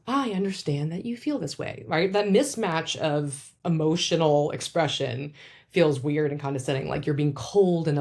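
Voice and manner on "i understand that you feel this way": robotic validation. Shown as a demonstration. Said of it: "it sounds robotic".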